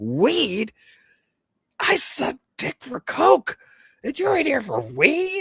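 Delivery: put-on indignant angry outburst, very high, swooping. Retelling a movie scene where a man at a meeting gets mad: imitating someone angry. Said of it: "He got all mad".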